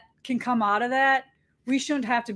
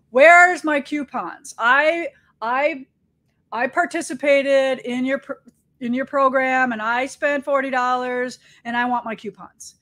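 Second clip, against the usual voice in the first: mock complaining customer; 4 dB louder than usual.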